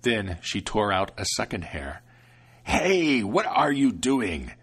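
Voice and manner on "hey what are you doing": mildly louder angry shout; angry devil. Acted. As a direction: snap at the grandmother. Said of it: "the devil screamed angrily".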